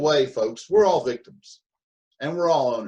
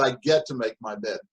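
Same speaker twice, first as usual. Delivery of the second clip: grateful get to; 3 semitones lower than usual. Shown as a demonstration. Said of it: "difference between those two thought processes".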